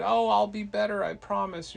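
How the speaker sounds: high, acted begging; pleading. Loki begs to be friends.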